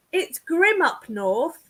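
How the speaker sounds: drawn-out Northern English saying; lightly put-on Yorkshire-style accent. Shown as a demonstration. Quoting a saying about the grim north, in a Northern accent. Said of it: "they talk like that up there".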